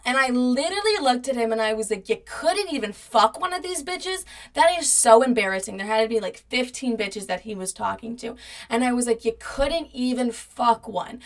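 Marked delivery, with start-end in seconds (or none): 2.1-5.8 high-pitched, scornful disbelief; incredulous mocking. To cheating ex after seeing messages, high incredulous mocking. 9.2-11.2 slow, measured mocking statement; deliberate taunt. To cheating ex, taunt repeated slowly and deliberately.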